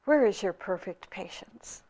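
the Rinpoche answering the angry hermit calmly. Acted. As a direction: settle him down, kindly and quietly. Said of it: "said the Rinpoche calmly".

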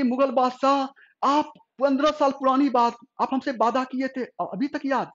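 high, delighted surprise; the queen thrilled that he remembered, voice lifting high; overjoyed. A narrator's reading. Queen delighted by the maroon sari, high joyful voice. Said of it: "इतना खुश हो गई".

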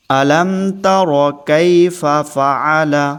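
each syllable drawn out slowly; slow recitation. Shown as a demonstration. Teacher reciting for the class to follow, slow and clear. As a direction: recite it slowly for students to repeat. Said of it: "আরেকবার পড়ুন".

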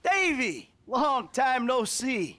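mock cheerful greeting. Greeting old rival with sarcasm.

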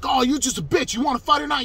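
high, loud taunt in imitation; just being loud. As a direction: mimic him goading his opponent. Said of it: "he's just being loud".

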